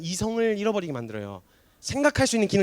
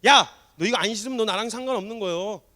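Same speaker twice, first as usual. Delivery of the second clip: annoyed ultimatum, raised voice; imitated irritation; 4 semitones higher, 6 dB louder than usual. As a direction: snap it like an irritated teacher, acted. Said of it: "짜증이 나갖고 뭐라고 하시냐". (짜증 섞어 언성 높인 흉내)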